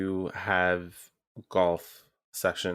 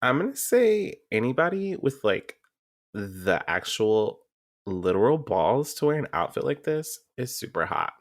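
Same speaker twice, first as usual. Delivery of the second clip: put-on Valley Girl; 5 semitones higher, faster than usual. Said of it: "you have to talk like a Valley Girl".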